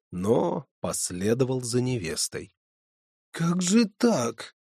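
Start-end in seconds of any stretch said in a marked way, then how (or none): 3.3-4.5 lamenting. Acted. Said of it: "причитал он".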